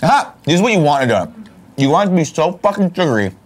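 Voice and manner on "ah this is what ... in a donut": overjoyed squeal of pleasure; ecstatic. Real, not acted. Ecstatic donut bite.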